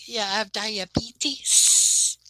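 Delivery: slow hushed whisper. Retold or imitated. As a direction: breathe it out slowly.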